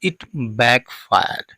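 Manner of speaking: it backfired drawn out word by word, very slowly; slow dictation of "it backfired"; very slow teaching read. Shown as a demonstration. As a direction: spell out "it backfired" slowly for learners. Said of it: "means English में कहेंगे इसको".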